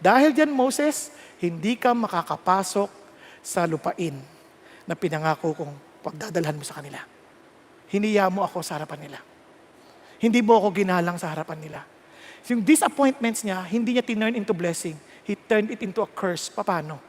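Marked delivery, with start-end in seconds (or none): 0.0-11.8 low, soft, saddened pronouncement; hushed, grave disappointment; sorrowful God. Acted. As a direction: deliver the sentence with quiet sorrow.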